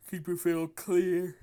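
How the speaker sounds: slow, high, loud psyched-up self-command; hyped self-pep talk. Retold or imitated. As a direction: pump yourself up, drawing each word out. Coaching himself mid-game in retelling.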